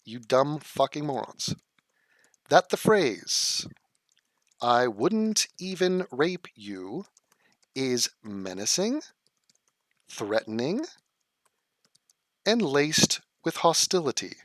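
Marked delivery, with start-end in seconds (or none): 2.5-14.4 slow, dragged out with long pauses; sarcastic lecturing pace, dropping low and soft; mock solemn. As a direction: read it out like a pompous verdict. Mock reading critic's claim.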